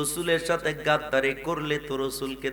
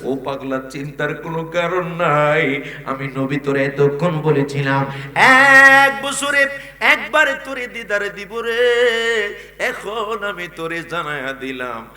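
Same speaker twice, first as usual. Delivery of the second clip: intoned sermon reply; 3 semitones higher, 8 dB louder than usual. Acted. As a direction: chant a reassuring promise to a devotee.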